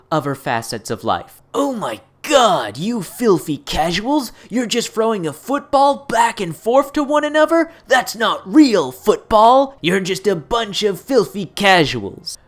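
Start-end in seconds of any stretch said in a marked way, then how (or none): 1.5-12.4 scandalized sports snob; outraged snob. Pretend. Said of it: "Imagine for a moment if we applied this hardcore gamer mindset".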